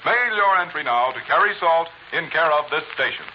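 brisk vintage sponsor pitch; old radio announcer. Acted. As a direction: sell it like a 1940s announcer. Closing sponsor read.

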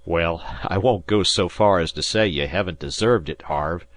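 lightly voiced old sea captain; an easygoing skipper addressing his boy; Disko, rustic skipper.

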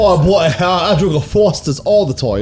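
badly faked Aussie accent; bad Australian accent. Shown as a demonstration. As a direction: have a go at Australian, unconvincingly. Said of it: "None of us can do an Australian accent".

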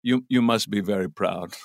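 slow, dry deadpan delivery; a legend's dry quip to the wife; lightly imitating Anthony Hopkins. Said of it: "he goes".

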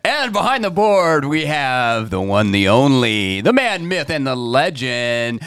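announcer intro. Acted. Introducing the sound guy.

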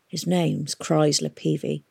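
slow hoarse explanation. Acted. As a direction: rasp it out slowly, voice worn. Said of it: "Hester explained hoarsely".

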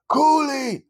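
loud high call across the stage. Retold or imitated. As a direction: call his name sharply. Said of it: "Buck was like".

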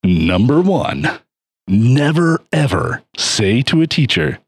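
hyped announcer voice; fighting game announcer. Pretend. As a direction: call it like a big announcer. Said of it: "Will you talk in your announcer voice more?".

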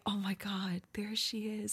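breathless hushed whisper of awe; excited whisper. Retold or imitated. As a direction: whisper it like she might hear you. Retold awe at seeing her.

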